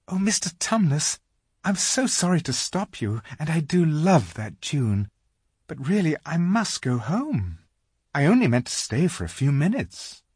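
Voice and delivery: high-pitched Lucy, apologetic; polite little girl. A narrator's reading. Lucy telling the faun she must go home, politely apologetic. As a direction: excuse yourself in a high girl's voice. Lucy interrupts, asking to leave.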